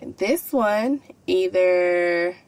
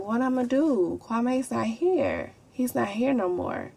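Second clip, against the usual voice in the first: quiet despair; 4 semitones higher, 4 dB quieter than usual. Retold or imitated. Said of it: "I had got a little emotional".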